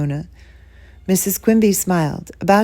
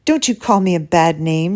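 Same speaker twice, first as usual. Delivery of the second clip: shouting; 4 dB louder than usual. Acted. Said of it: "she shouted".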